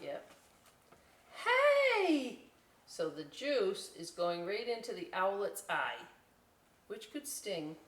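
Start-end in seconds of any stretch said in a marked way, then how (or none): 1.4-2.4 high, loud call out; sudden shout. Real, not acted. Librarian calling out to someone nearby, loud. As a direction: call out to grab attention.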